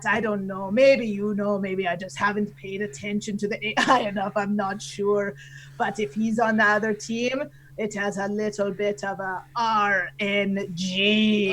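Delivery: lightly hammed pirate voice; unsure pirate captain reasoning aloud; Canadian pirate. Admitting he isn't sure about the AI, light Canadian pirate voice. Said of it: "your Canadian pirate voice".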